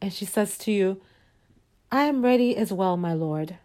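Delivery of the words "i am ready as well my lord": lightly voiced obedient wife; submissive wife. Wife answering her husband at bedtime, mild submissive voice.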